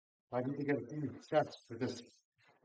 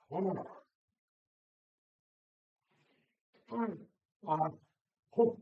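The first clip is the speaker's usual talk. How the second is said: effort grunt; 6 semitones higher, 4 dB louder than usual. Real, not acted. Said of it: "sorry for the grunting".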